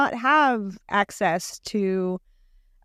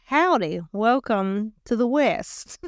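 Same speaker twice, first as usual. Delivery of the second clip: mock West Texas accent; slower than usual. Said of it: "I don't know what that accent was".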